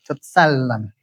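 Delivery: "Totsalan" with a long, continued L; held double L. Shown as a demonstration. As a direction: land on the L of "Totsalan" and hold it. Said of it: "it lands and continues".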